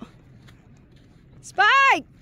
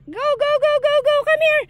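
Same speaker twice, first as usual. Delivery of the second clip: excited cheering; 7 semitones higher, 4 dB louder than usual. Real, not acted. Cheering the dog on.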